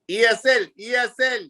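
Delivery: helpless newcomer. Retold or imitated. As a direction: imitate a confused recruit explaining himself. Mimics himself pleading when yelled at.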